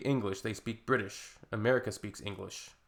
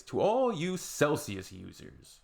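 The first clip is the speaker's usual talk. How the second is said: slow, higher proclamation; slow, grand address; 4 semitones higher, slower than usual. Real, not acted. Addressing Celsius users, slow mock-grand. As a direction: declaim it slowly.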